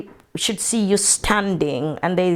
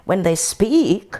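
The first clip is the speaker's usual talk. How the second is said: retold question voiced high and prim; imitating English woman; 5 semitones higher than usual. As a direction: play the puzzled Englishwoman quizzing her.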